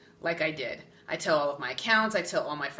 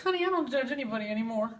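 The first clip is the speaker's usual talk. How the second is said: sassy; 4 semitones higher, much faster than usual. Retold or imitated. Sassy medium persona quote.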